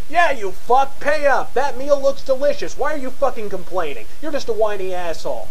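high-pitched angry heckling, easing toward the end; shouting customers. Acted. Other diners turn on the complaining customer, shouting. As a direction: heckle like an irate crowd of diners. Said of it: "the other customers start shouting at you".

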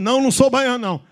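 high, loud protest; mock-indignant denial; emphatic denial. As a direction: protest hotly, acting it out. Acted denial in the teased dialogue.

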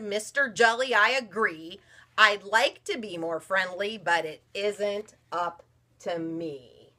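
mopey fish voice, slowing at the end; glum fish. Acted. Mother reading aloud, the fish answering the jellyfish glumly. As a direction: sigh out the excuse.

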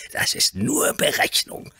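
slow, hissed contempt; hissing. A narrator's reading. Earl hissing scornfully about the boy's mother. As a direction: spit it out as a hiss. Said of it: "fauchte seine Lordschaft".

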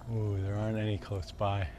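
usual speaking voice

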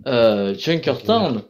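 slow sarcastic praise. Real, not acted. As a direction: drag it out mockingly. Sarcastic praise of hated maps.

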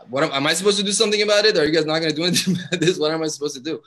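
retelling his flustered reply to the staff; exasperated protest. Retold or imitated. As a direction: fire off the questions in alarm. Retold panicked protest.

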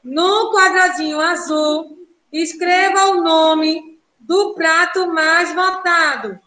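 slowed down, each word spelled out for the class; slow, careful instruction. Shown as a demonstration. Teacher slowing down so the class follows, deliberate. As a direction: say it slowly so the kids follow. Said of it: "presta atenção".

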